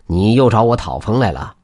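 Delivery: put-on gloating old man, firmly refusing; scoff, then turn them down with relish; a touch of smug triumph; smug chuckle. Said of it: "得意地笑了".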